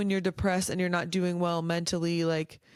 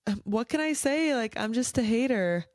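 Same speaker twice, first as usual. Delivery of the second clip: higher, proudly smug mock voice; smug hater quote; 4 semitones higher than usual. Mocking proud haters, higher smug voice. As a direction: imitate a hater shrugging it off with pride. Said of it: "Some people are like".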